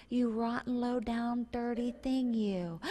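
soft, sugary insult; mock sweet voice hiding a nasty insult; sweetly voiced insult. Shown as a demonstration. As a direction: insult them in a sweet little voice. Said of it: "in a sweet voice".

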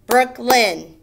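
"Brooklyn" in two loud beats, brook, lyn; split into syllables. Shown as a demonstration. Teacher doing pupils' names, "Brooklyn" beat by beat. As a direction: punch out each half of "Brooklyn". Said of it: "How many syllables?".

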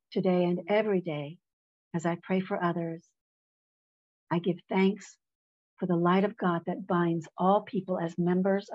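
measured devotional reading, pausing between phrases; composed prayerful read-aloud with spacious pauses; meditative reading. Real, not acted. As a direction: read it as an affirmation for listeners to absorb. Reads prayer message in meditation.

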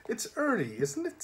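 high, lilting friendly reminder; sweetly helpful and high-pitched; happy smile. A narrator's reading. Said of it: "giving him a happy smile".

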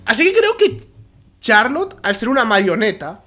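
unintended shouting. Real, not acted. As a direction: get carried away and over-project while explaining a theory. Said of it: "no sé por qué estoy gritando".

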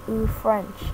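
a lightly amazed little "Ooh, French"; catchphrase. Shown as a demonstration. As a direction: marvel at it, half to yourself. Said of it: "catchphrases like".

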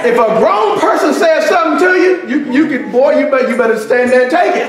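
rising shout from the pulpit; preaching at full force. Acted. Pastor preaching to the congregation, shouting.

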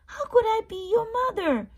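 high, loud, fast cow; a silly cartoon cow answer. Cow answers baby bird, high and loud. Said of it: "said the cow".

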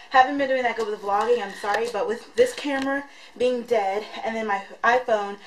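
breathy, catching breath between phrases; shallow breathing. Real, not acted. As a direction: still winded from the stairs. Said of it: "I'm out of breath".

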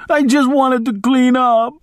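put-on high, pleading old woman's voice; frightened old maid. A narrator's reading.

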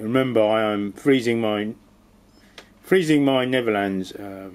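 cold, stumbling words; shivering, tripping over words. Real, not acted. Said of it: "I'm stuttering or not really compos mentis".

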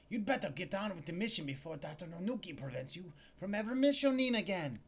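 high, loud startled female clerk; a clerk jolted to see him back; shop clerk voice. Acted. Clerk snapping at Larry, high and loud.

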